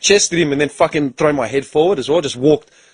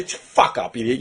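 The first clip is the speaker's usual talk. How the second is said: breathy, lower threat; low hissed put-down; 4 semitones lower, 5 dB quieter than usual. Retold or imitated. Telling off the kicking player, low hissed threat. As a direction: hiss it at him, low and cold. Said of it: "I go".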